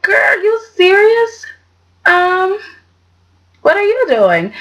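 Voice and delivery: high, slow, disbelieving shout at the screen; stunned sassy exclamation; incredulous outcry. Retold or imitated. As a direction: yell it like you can't believe what she just did. Her reaction to Victoria's move.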